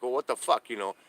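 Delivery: replaying how he snapped back at the cops; pissy retort to cops. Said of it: "I get pissy with these damn cops".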